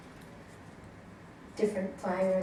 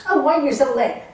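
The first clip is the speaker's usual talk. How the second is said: nagging complaint, louder; mock scolding; 4 semitones higher, 10 dB louder, faster than usual. Teacher imitating a relative scolding someone arriving home late. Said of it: "somebody says".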